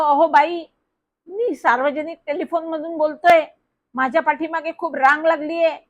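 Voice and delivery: flustered plea. Acted. Flustered boy pleading at phone booth.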